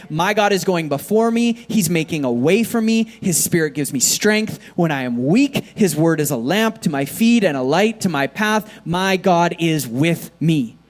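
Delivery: bold, declared confession of faith; preaching declaration. Acted. Pastor declaring faith over the church, preaching. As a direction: proclaim it over the room.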